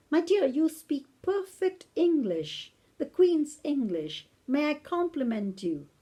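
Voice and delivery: slow, carefully spelled-out British English; elderly British lady. Retold or imitated. Old lady offers a pamphlet in Arabic, slow British English imitation. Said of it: "I'm gonna imitate her now".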